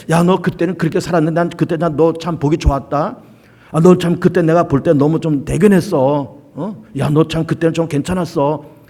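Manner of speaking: a hint of fond, gentle praise; God telling a believer he did well, mildly tender; God praising. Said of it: "그렇게 말씀하시는 그런 칭찬도".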